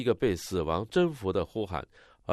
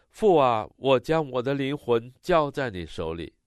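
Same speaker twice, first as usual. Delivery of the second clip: raised, calling voice, loudest on the opening address; Jesus; 3 semitones higher, 3 dB louder than usual. Retold or imitated. Interpreter voicing a dying prayer to the Father, a loud retold cry. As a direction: cry out to a father, higher at first. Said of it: "主耶稣绝对有理由大声呼喊".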